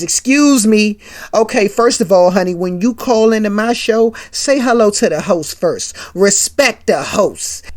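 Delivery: jealous host scolds the caller, slowing on respect the host; snippy put-down of a fan; jealous scolding. Acted. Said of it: "Martin hating".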